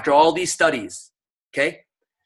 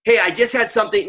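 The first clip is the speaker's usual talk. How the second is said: upbeat script opener; 5 semitones higher, faster than usual. Shown as a demonstration. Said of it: "So you want to say".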